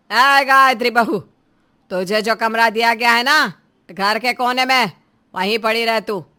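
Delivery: scornful scolding, loud on the opening call; cutting taunts. Acted. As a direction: order her away with contempt. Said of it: "तीखे तानों को सुनकर". (तीखे ताने मारते हुए)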